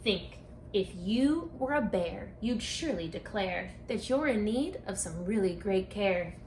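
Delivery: lively sing-song picture-book read-aloud; reading to children. Acted. Author reading her rhyming book to children, storytime voice. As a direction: read it like storytime for a class of kids.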